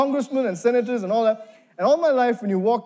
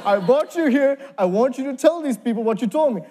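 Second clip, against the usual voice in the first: mildly stern mock scolding, higher pitch; scolding ambassador; 3 semitones higher than usual. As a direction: tell off a young man, half in jest. Ambassador scolds him before the gathering.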